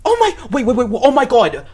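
high, breathless fangirl shrieks; shocked shriek. Real, not acted. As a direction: squeal in disbelief, rising fast. Fan meets idol, shrieking in shock.

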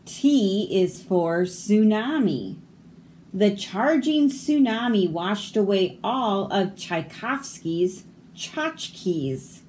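measured read-aloud with lifted key words; picture-book reading. Acted. Reader sharing a silent-letter alphabet book, picture-book reading. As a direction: read it out clearly for children.

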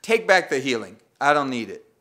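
healed man huffily turning down spit therapy; indignant complaint. Retold or imitated. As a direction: play the affronted patient rejecting the healing. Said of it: "Can you imagine this guy saying".

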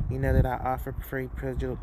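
numb mouth, stumbling over the words; tripping over words with numb lips; numb from the dentist. Real, not acted. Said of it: "oh, I can't even talk".

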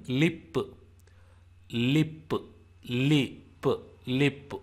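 "lip" with a short i and a released p; demonstrated short vowel. Shown as a demonstration. Teacher shows li as in lip, carefully sounded "lip". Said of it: "it is pronounced like L I in".

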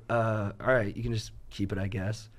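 low, softened, hesitant giving in; unsure what to do. Retold or imitated. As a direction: trail down quietly, at a loss. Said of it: "not knowing what to do".

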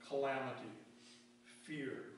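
"calamity" and "fear" each set apart by a pause; single out "calamity", then pause before "fear"; emphasized key words. Real, not acted. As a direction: give "calamity" and "fear" each its own beat. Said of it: "words that I just emphasized".

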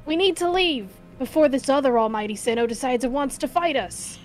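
a light Southern twang on the leader; partial Southern accent. Acted. Player voicing Adaman to the group, light Southern accent. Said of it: "a southern accent in the back of your voice".

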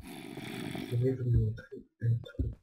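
drawn-out, measured repeat; slow teasing announcement. Acted. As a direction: take your time announcing it. Announcement repeated slowly for effect. (annonce lente et étirée)

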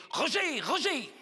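swooping call on the name; lovestruck woman calling. Acted. Oula calls Roger on the beach, lovestruck. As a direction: call out to the beloved, lightly acted. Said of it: "elle lui a fait".

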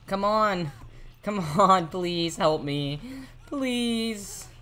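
begging a teammate for help, panicked; desperate pleading. Real, not acted. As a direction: beg for help, rising.

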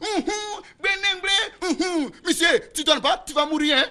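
channel a spirit in a trance. Acted. Adult pupil falling into a trance, high and chanting. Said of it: "Dites à votre fils d'arrêter ça".

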